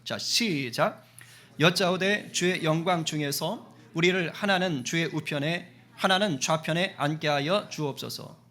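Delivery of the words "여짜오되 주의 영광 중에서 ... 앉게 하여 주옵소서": slow, measured Bible reading; unhurried formal recitation; scripture reading. A narrator's reading. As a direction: read the verse out deliberately to a congregation. Reads scripture aloud to congregation.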